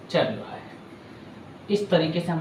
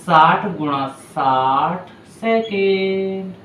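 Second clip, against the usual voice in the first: slow dictation; 4 dB louder, much slower than usual. Shown as a demonstration. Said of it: "teacher dictating to the class".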